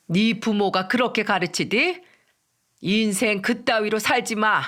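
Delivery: understated angry scolding; angry rebuke. Acted. Mother-in-law insulting her daughter-in-law after slapping her, angrily. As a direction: rebuke with a touch of anger. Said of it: "저한테 화를 내면서 이런 말까지".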